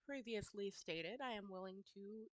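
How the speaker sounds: measured, businesslike offer; negotiator voice. Acted. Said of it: "in her best negotiator voice".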